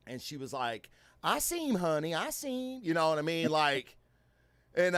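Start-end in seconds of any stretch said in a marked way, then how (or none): 1.2-2.8 lightly voiced grandmother calming the child; reassuring grandma. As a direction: soothe her gently, a touch higher.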